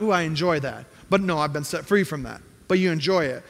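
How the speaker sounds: lightly voiced sly believer; mock self-deception. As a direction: play the hypocrite lightly. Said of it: "you're like".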